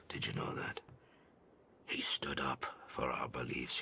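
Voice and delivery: an elder confides the family tragedy, hushed and grieving; hushed confession. Acted. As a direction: confess the old wounds under your breath. Hushed retelling of tribe's past.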